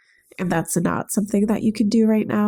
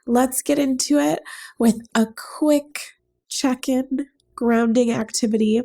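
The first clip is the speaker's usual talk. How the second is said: stuffy nose; 2 semitones higher than usual. Real, not acted. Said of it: "You can probably hear from my voice that I'm really stopped up".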